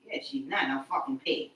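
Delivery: hushed whispered aside. Real, not acted. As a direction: whisper it so others won't hear.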